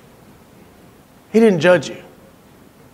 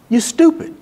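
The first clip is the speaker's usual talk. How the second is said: blunt verdict; 8 semitones higher than usual. Retold or imitated. Voicing dad's blunt verdict.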